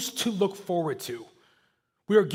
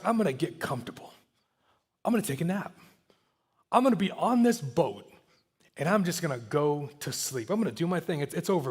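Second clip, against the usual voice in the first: softer, easygoing, settling down for a nap; relaxed sleepy Jesus; 3 semitones lower, 4 dB quieter than usual. Retold or imitated. Preacher voicing Jesus lying down to nap, softly relaxed. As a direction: lightly voice a calm man dozing off. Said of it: "Jesus decides".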